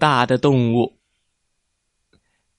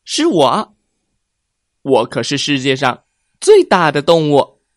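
boastful; 2 semitones higher, 5 dB louder than usual. Acted. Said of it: "也不甘示弱地回答道".

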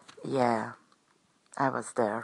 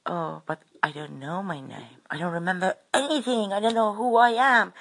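retold shaken confusion; 4 semitones higher than usual. Shaken fire-starter answering the old bloke, flustered and confused. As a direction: imitate a flustered, shaken reply. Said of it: "I was shaking".

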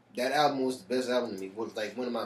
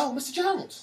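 put-on surprised old man voice; 14 semitones higher than usual. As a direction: greet him in a high put-on voice. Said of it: "He said".

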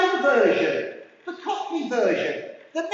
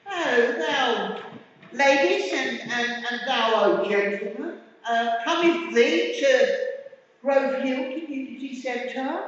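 mock Shakespeare; 3 dB louder than usual. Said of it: "the way that William Shakespeare spoke".

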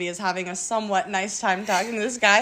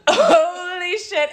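long, drawn-out higher exclamation; shocked reaction; 5 semitones higher, 3 dB louder, much slower than usual. Retold or imitated. Friend hearing about the ass crack, drawn-out retold shock. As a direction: stretch it out in mock shock.

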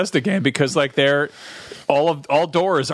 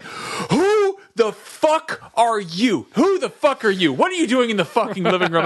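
slow, higher suspicious growl of a guard dog; aggressive dog voice; 6 semitones higher than usual. Acted. Dog confronting a stranger in sunglasses, hostile. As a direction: bark it out as a wary dog. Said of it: "the dog would be like".

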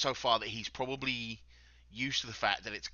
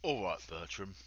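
low-key, softened greeting; quiet menace; 5 semitones lower, 7 dB quieter than usual. Acted. Intruder crouched at Bertram's eye level, quiet menace. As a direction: say it softly, close up, threatening. Crouched close beside the frightened captive.

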